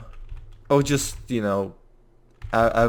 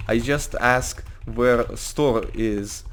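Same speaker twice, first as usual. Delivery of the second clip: put-on slow broken English, Russian accent; put-on Russian accent, deliberate; fake Russian accent; much slower than usual. Anton explaining himself to a cop, fake Russian accent. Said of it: "I'm trying to fake a Russian accent".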